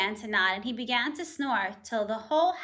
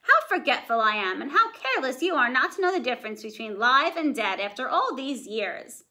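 a touch of scolding sarcasm; mildly voiced nagging wife. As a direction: chide him mockingly. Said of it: "my voice changed".

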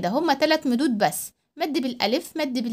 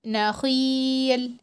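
slow word read; much slower than usual. Shown as a demonstration. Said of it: "كلمة نخيل".

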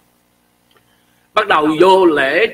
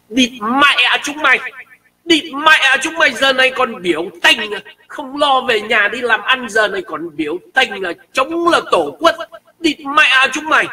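put-on higher, slow, cursing in a Northern Vietnamese accent; 6 semitones higher than usual. Northern Vietnamese heckler cursing the protesters. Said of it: "Mình nghe cái giọng Bắc nó nói như thế này".

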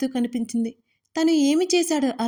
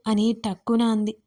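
ordinary delivery, nothing marked

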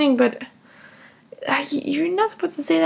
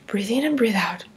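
unvoiced whisper, lower and softer; whispered breathing cue; 7 semitones lower, 4 dB quieter than usual. Mother whispering to herself to stay calm.

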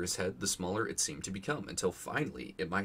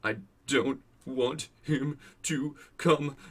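slow, high, loud bratty wail; hammed-up spoiled child's tantrum; yelling through pretend sobs; 7 semitones higher, 6 dB louder, much slower than usual. A narrator's reading. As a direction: wail it word by word with fake sobs. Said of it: "Dudley yelled between huge pretend sobs".

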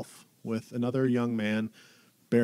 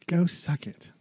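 whisper; 7 semitones higher, slower than usual. Acted. Whispered echo of advice.

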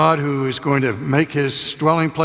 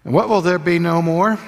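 higher and louder rising question; call to the congregation; 5 semitones higher, 6 dB louder than usual. Acted. Preacher calling for the congregation's response. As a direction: throw the question out to the pews. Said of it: "preacher calls question to congregation".

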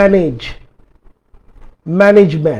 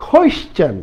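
teaching model; 7 semitones higher than usual. Shown as a demonstration. Teacher models question for students, pitched high. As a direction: question said high, rising on the first syllable. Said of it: "it's a".

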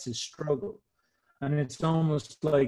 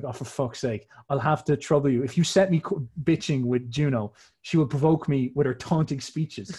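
mildly exasperated, louder grumbling; a put-upon husband's grumble, lightly acted; complaining Zeus; 3 dB louder than usual. Zeus grumbling about trouble with his wife Juno, complaining. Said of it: "Zeus is complaining".

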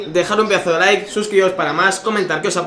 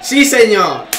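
very loud high screaming cheer; goal celebration; 7 semitones higher, 8 dB louder, slower than usual. Real, not acted. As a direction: scream the player's name in joy.

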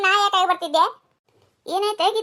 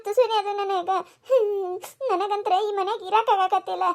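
slightly weepy, subdued complaint; tearful grievance; 4 dB quieter than usual. Acted. Daughter-in-law says she cannot stay in this house, tearful. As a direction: grumble on the edge of tears.

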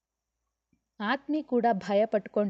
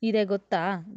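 playful complaint; 3 dB louder than usual. Acted. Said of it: "ಗೆಳತಿಯನ್ನ ದೂರುತ್ತಾ".

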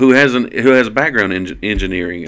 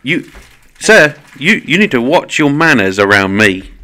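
loud, mock-offended British accent; hammed-up British indignation; 3 semitones higher, 5 dB louder than usual. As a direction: scold in a put-on British accent. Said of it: "it's my British accent".

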